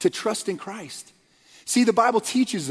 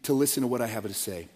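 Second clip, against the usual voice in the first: earnest plea; 4 semitones lower, 4 dB quieter than usual. Retold or imitated. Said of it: "strong, urgent, desperate plea".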